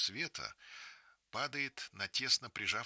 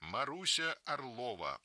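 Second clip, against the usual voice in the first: loudspeaker announcement; 2 semitones higher than usual. Acted. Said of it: "продолжает репродуктор".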